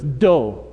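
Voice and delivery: "do" said for no, with a D instead of the N; toddler's emphatic "do"; child's no as do. Retold or imitated. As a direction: say "do" like a toddler refusing. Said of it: "it comes out as a D".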